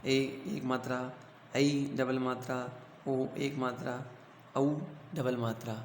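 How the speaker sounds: ए and ऐ stretched out slowly for pupils; drawn-out vowel demo. Shown as a demonstration. Teacher showing the class each matra, slow and drawn out. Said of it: "teacher reading matra pairs".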